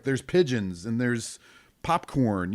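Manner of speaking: normal talking voice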